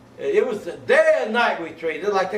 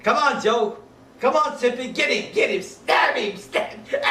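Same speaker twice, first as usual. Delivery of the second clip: raised, egging-on cheers; cheering crowd; 5 semitones higher than usual. Retold or imitated. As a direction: urge them on like a rowdy crowd. Soldiers cheering bayonet fight.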